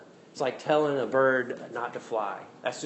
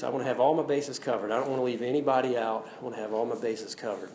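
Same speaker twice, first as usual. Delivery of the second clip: imitating a singer, serious; 2 semitones lower, faster than usual. Retold or imitated. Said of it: "He's just serious".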